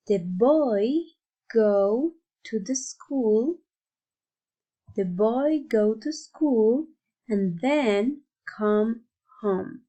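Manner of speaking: put-on slow, word-by-word model of "the boy go to school"; model pronunciation. Shown as a demonstration. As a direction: draw out "then come home" carefully for learners to repeat. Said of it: "show you how to pronounce them".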